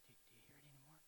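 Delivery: very soft, barely voiced; hushed bedtime question. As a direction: murmur it so faintly it barely carries. Retold question to wife in bed.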